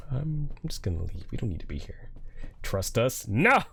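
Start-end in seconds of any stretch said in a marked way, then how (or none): 0.1-2.1 soft, unvoiced nervous whisper; scared whisper. Real, not acted. Scared whisper in creepy room. 3.3-3.6 emphatic no. Real, not acted. Refusing the trust choice.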